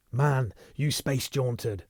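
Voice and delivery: slow, savage insistence. Acted. Sheffield hammering the truth at Foyle, savage and slow. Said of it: "Sheffield said savagely".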